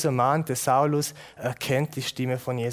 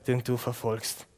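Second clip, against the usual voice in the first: solemn voice of Jesus; 3 semitones lower than usual. Acted. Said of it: "das große Ich Bin von Jesus".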